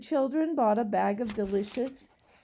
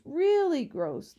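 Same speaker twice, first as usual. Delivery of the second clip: "really gross" repeated higher and louder, slowly; stronger disgust; 6 semitones higher, 5 dB louder than usual. A narrator's reading. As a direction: push "really gross" harder the second time, slowly. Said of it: "Lindy exclaimed".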